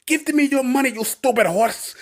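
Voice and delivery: high, loud, drawn-out rant at a horse; angry boss. Retold or imitated. Boss kicking the mechanical horse, shrill yelling. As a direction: yell at the ride like a petty brute.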